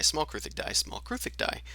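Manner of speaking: rising sing-song. Shown as a demonstration. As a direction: pitch up to a squeaky whisper. Repeats, climbing higher each time.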